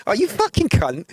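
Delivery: "you fucking cunt" said fondly, like before a hug; a mate's loving jab; friendly and warm, no bite; affectionate insult. Shown as a demonstration. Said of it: "you're gonna get a hug".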